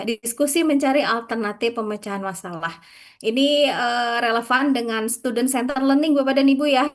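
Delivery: choppy broken-up online audio; glitching robot. Real, not acted. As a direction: voice cutting in and out over a bad connection. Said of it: "Bu, hilang lagi suaranya, putus-putus". (suara putus-putus seperti robot)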